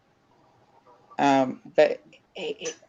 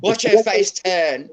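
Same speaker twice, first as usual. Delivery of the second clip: slow, louder and higher, savouring the mischief; gleeful dog voice; 5 semitones higher, 7 dB louder, slower than usual. Retold or imitated. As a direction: play the cheeky dog gloating over mum's panic. Voicing the dog's mischievous thoughts.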